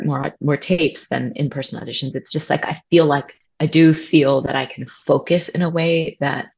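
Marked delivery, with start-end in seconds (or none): 3.6-6.5 vocal fry. Real, not acted. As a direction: let the voice drop into creak. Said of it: "I'm doing that thing where people, like, sit on their cords".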